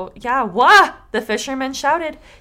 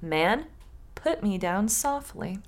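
a softer, slow plea from the branch; soft palm branch; 7 dB quieter, slower than usual. Acted. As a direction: ask gently to be put down, slowly. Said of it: "the palm branch said".

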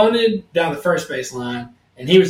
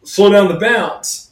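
stern referee; 3 semitones higher, 4 dB louder, slower than usual. Retold or imitated. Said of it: "the referee would be like".

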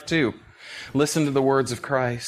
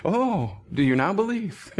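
gentle question; 5 semitones higher than usual. Acted. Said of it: "I don't think he's chiding them".

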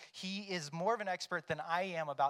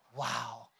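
mock wonder; 6 dB louder than usual. Proud dad retelling.

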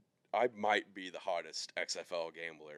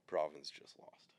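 whisper; 5 dB quieter, slower than usual. Real, not acted. Sharing bad news quietly.

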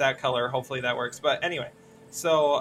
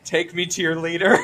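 loud robotic alien voice; 2 semitones higher, 9 dB louder than usual. Acted. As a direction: announce it like a B-movie alien. Classic alien line.

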